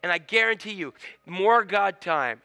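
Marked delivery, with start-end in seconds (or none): 1.3-2.4 slow emphatic. Shown as a demonstration. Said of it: "repeats phrase".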